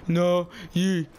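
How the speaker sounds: slow, halting, word-by-word order; imitated stern insistence. Helper ordering a student to the office, sternly insistent. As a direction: lay it down slowly and firmly, mimicking authority.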